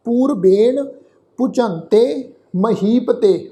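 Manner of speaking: slow, measured chanting of the verse; scripture recitation. Shown as a demonstration. Teacher leading the sangat through the shlok, slow recitation. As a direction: recite each syllable slowly for the congregation.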